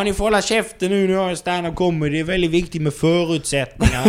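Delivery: high-pitched, indignant telling-off; mock scolding. Comic tells off chatting American diners, mock indignant scolding. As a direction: act out an outraged comic silencing a table.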